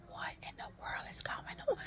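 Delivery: very high, soft, strained voice; retold bewildered squeal. Patient wondering at her body's reaction, high-pitched bewilderment. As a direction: squeak out mock-panicked disbelief.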